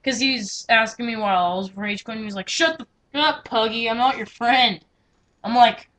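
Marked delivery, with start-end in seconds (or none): 2.5-4.8 mock angry retort. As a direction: snap it back like a fed-up gamer. Acted angry reply in chat quarrel.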